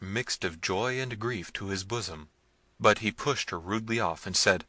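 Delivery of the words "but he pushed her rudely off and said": ordinary delivery, nothing marked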